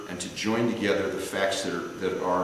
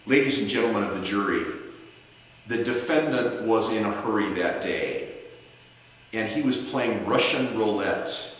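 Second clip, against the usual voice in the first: passionate closing argument. Shown as a demonstration. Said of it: "that's an example of an analogy".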